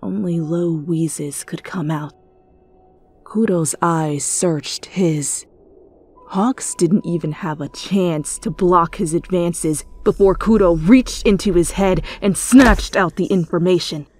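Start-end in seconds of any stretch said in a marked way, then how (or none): none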